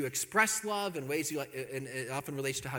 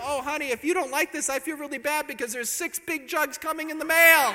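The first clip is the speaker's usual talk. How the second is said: mock-apologetic husband; 11 semitones higher, 7 dB louder than usual. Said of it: "I go".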